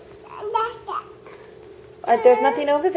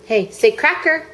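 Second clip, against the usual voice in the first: put-on baby talk; 6 semitones higher than usual. Mother coaxing baby to talk.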